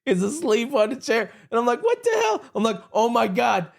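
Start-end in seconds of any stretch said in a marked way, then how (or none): 1.8-2.4 high shocked yelp. Retold or imitated. Realizes wrong room. 2.9-3.7 surprised. Retold or imitated. Realizes wrong room.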